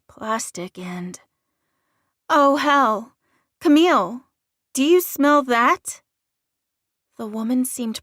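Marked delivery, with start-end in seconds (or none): 2.3-6.0 louder, higher, urgent alarm. A narrator's reading. Woman alerts her companion to a strange smell, alarmed. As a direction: call out in sudden alarm. Alarmed at a scent, calls Camille.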